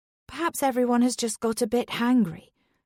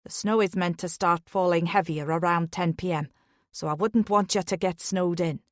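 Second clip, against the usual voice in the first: Irish lilt; 3 semitones lower than usual. Acted. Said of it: "His Irish lilt".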